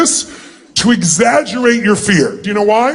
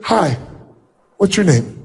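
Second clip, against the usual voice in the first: scared greeting; 5 semitones lower than usual. Shown as a demonstration. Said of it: "if I came up and said".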